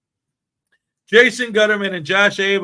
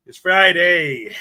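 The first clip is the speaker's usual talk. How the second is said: slow announcement; 6 dB louder, slower than usual. Acted. Drawn-out Friday announcement.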